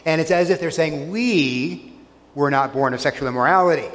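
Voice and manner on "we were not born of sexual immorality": "We" set apart, then the rest run quickly; stress on WE. Shown as a demonstration. Preacher voicing the crowd's proud "We" to Jesus. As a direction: pause after a weighted "We". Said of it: "there's an emphasis on the "we".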